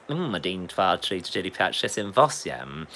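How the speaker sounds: lightly voiced eccentric English gentleman; Stanley Unwin. Shown as a demonstration. Counting to eight in Russian, lightly Unwin-like. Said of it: "sound a bit like something that Stanley Unwin".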